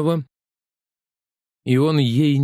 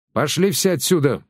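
shriek; 5 semitones higher than usual. A narrator's reading. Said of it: "вдруг взвизгнула Тереза Васильевна".

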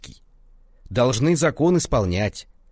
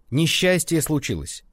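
yelling; 7 semitones higher than usual. A narrator's reading. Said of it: "вопили они".

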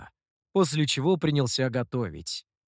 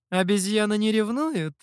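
higher-pitched, mildly dismissive question; light disdain; 6 semitones higher than usual. A narrator's reading. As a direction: ask it with a touch of disdain. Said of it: "С лёгким пренебрежением поинтересовалась женщина". (с лёгким пренебрежением)

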